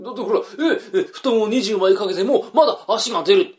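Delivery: high, laughing delivery. Acted. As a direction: speak through laughter. Young man laughing at the joke.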